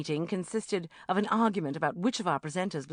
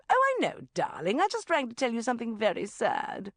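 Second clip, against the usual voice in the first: bubbly mum bursting with news; mother ringing her daughter at work; 5 semitones higher than usual. Acted. Mum on phone.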